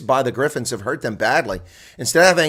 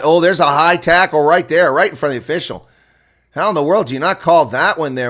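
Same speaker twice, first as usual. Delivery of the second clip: louder, higher protest at the referee; outraged call; 4 semitones higher, 6 dB louder than usual. Real, not acted. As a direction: demand to know how that was missed. High tackle not penalised.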